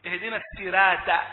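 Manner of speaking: الصراط begun with a thin س; sad as sin. Shown as a demonstration. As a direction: swap ص for a light س in الصراط. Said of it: "أو يجعل الصاد".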